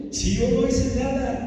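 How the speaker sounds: high, mock-weeping wail; retold tearful protest. Disciplined man crying over the injustice, high retold lament. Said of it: "me puse a llorar y a decir".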